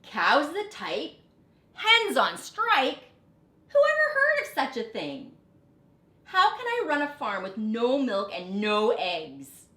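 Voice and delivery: furious farmer ranting at striking animals. A narrator's reading. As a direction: rant in mounting outrage. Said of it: "Farmer Brown was furious".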